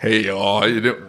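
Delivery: put-on a light Southern accent on "Hey, y'all, how you doing?"; southern drawl. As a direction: hold it together and drawl the Southern greeting mildly. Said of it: "recognizes Lucas and his southern drawl".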